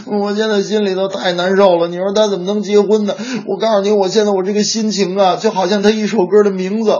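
mock crying. Sister moaning to brother about her idol's wedding, mock crying. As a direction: wail it like a devastated fangirl. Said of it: "哭的那叫一个惨呐".

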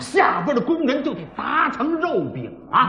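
dramatic pingshu storyteller voice, rising to the cliffhanger; storyteller narration. Acted. Storyteller tells listeners the cave-in, in a dramatic pingshu voice. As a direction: spin the tale like a pingshu teller.

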